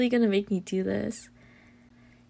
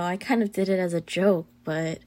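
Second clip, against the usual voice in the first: normal talking voice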